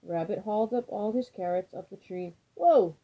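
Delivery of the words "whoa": loud, higher startled groan; groaned whoa. A narrator's reading. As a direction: cry out as the branch gives. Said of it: "groaned Tortoise".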